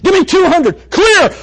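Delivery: high, loud frantic doctor shout. Retold or imitated. Preacher playing a TV doctor yelling to charge the paddles. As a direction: call for the shock like a TV medic. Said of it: "you're watching a medical show".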